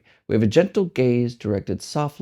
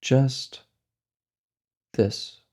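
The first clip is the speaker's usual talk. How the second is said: slow, measured guiding with long pauses; spacious, deliberate meditation-teacher delivery; guided meditation. Real, not acted. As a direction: lead a meditation unhurriedly, leaving space between phrases.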